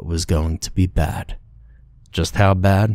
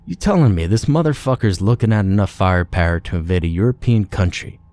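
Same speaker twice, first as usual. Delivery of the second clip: scoffing disbelief; 3 semitones higher, faster than usual. Acted. Marine mocking Tiny in disbelief.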